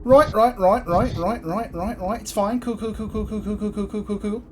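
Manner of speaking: flustered brush-off. Acted. Creed turned down, quoting Brooklyn Nine-Nine, flustered and fading. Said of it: "quote a little bit of Brooklyn Nine-Nine".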